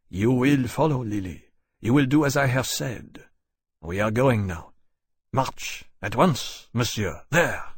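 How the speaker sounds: commanding, controlled Frenchman; cold Frenchman giving orders. Acted. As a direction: lay down the terms firmly. Choiseul orders at swordpoint.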